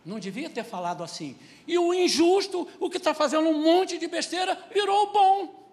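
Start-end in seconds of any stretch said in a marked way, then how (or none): 1.6-5.7 high, loud preaching outburst; rising shout of outrage. Real, not acted. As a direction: thunder it at the congregation. Preacher decrying inverted values.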